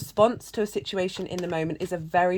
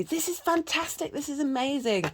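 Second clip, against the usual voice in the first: much higher, gushing mock delight; delighted neighbors; 9 semitones higher than usual. Storyteller voicing neighbors, high mock delight. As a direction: play the neighbors thrilled at their luck. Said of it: "the neighbors say".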